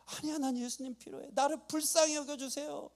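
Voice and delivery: high, pleading insistence; acted crying out. Sinner insists he needs the Lord, high imitated plea. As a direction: plead upward as the desperate blind man. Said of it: "예수님께 소리 지르는 이 바디메오".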